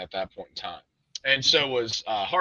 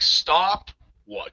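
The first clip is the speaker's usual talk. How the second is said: higher-pitched irritated retort; retold annoyance, pitched up on Stop what; 5 semitones higher than usual. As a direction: throw the question back, irritated. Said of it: "irritated at this point".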